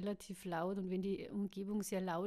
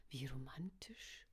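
slow, soft unvoiced aside, much lower; whisper to herself; 7 semitones lower, 11 dB quieter, slower than usual. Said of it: "flüsterte sie sich zu".

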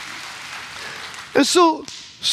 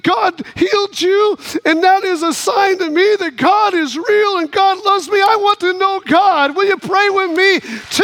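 fervent plea; 5 semitones higher than usual. Retold or imitated. Retold woman's awestruck plea for faith.

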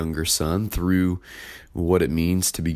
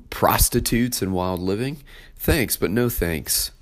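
indignant, pitched up at the start; the older son protesting to his father, resentful; resentful older brother; 2 semitones higher than usual. Acted. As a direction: complain like the wronged son. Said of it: "expresses his attitude".

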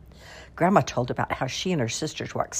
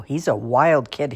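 slow, louder mock rant; raving father; 6 dB louder than usual. A hint of pa ranting about a suitor, slow and louder. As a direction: hammer each word like a stern pa. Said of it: "he'd rave".

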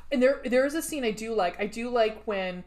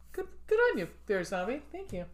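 mock praise; 5 dB quieter, faster than usual. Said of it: "I said".

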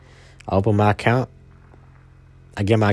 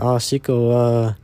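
mom's voice pitched higher, coaxing; imitating mom; 4 semitones higher than usual. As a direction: play his gentle mother trying to comfort him. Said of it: "she was, like, saying stuff to me like".

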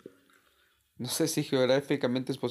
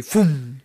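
imitated snatching whoosh; 8 dB louder than usual. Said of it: "Y se lo lleva la chingada".

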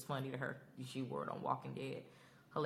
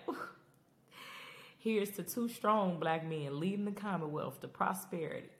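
higher and louder, cheering; celebratory toast; 5 semitones higher, 3 dB louder than usual. Retold or imitated. Toasting Ezekiel and Mercer leading the Commonwealth, excited cheer. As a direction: raise a glass and cheer it out. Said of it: "And I'm like".

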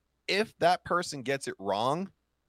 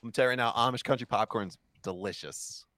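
mouth full; 2 semitones lower than usual. Real, not acted. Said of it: "Try not to eat into the mic".

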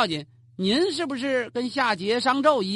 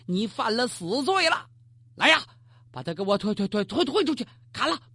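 怒骂. Acted. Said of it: "跺着脚他大骂朱云呐".

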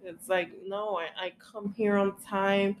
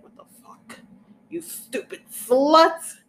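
mock furious yell, slow and higher; mock furious mom; 9 semitones higher, 10 dB louder, slower than usual. Daughter mimics her mom yelling at her in doctor's office, mock furious yell. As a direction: ham up an outraged mother's yell.

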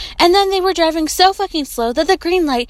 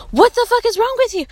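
exasperated outburst; 10 semitones higher, faster than usual. Retold or imitated. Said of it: "I'm like".

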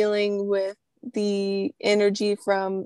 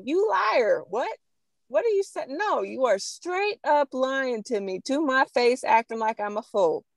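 calling out a liar; 4 semitones higher than usual. Retold or imitated. Confronting lying offender face to face.

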